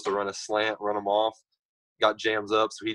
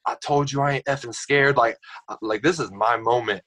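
retold yelling. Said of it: "I'm yelling at him".

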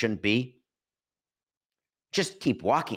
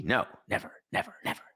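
whisper; 4 dB quieter, faster than usual. Pretend. Joking denial to producer.

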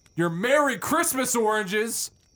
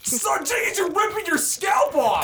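alarmed yell; 10 semitones higher than usual. Acted. Friend yelling at Jenkins to stop, alarmed. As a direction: shout at him to stop ripping it.

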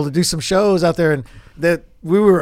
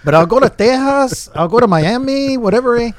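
put-on Latino accent. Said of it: "now he's becoming as Latino as possible".

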